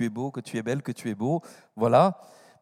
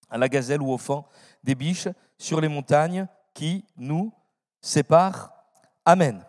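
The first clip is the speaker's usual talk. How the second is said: scripture reading. Acted. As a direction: read it out like a lesson in church. Reads Song of Songs aloud.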